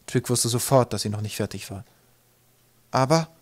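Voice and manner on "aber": "Aber" raised high with questioning rise; insistent question. A narrator's reading. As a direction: press for more on "Aber". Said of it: "fragte Twig mit Nachdruck".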